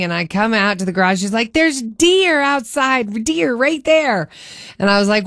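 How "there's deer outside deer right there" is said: slow, high, excited whisper-shout; eager child pointing out deer; excited daughter. Retold or imitated. Daughter telling mom about deer, high and excited.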